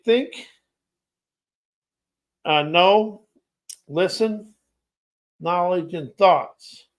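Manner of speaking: words set apart by pauses; slow word list. Shown as a demonstration. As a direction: say each word on its own, unhurried. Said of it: "I'm gonna say this slow".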